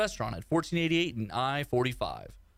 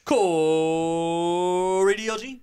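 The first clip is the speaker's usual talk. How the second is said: robot voice; 3 semitones higher, 5 dB louder, much slower than usual. Pretend. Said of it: "I was a robot".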